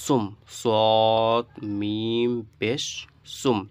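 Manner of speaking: "সদ মিম পেশ" stretched out, then "সুম"; spelling demonstration. Shown as a demonstration. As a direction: draw each letter name long, join as "সুম". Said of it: "দেখুন সুকুন বা সাকিন".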